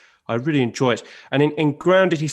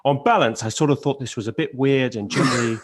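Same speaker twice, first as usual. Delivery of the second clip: Louis summing up. Retold or imitated. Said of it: "he'll come at the end".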